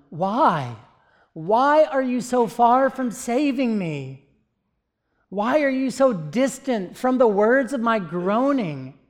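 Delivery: preacher voicing a pained cry to God; anguished plea. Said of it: "Can you feel the pain of agony".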